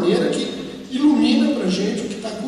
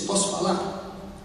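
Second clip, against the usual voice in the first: timid whisper; 9 dB quieter, slower than usual. Acted. Timid girlfriend asking to speak.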